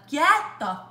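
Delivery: high, loud laughing outburst at a dead wasp; half-scream it through laughter; laughing shock. Retold or imitated. Startled by the bug in the candle, laughing shriek. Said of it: "and I was like".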